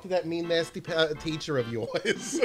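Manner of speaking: doting mom with a touch of New York; fussing Jewish mother. Retold or imitated. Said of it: "the Jewish mother".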